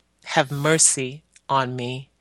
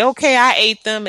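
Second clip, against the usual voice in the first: desperate false confession; 7 semitones higher, 7 dB louder than usual. Retold or imitated. Child confesses to stop pain.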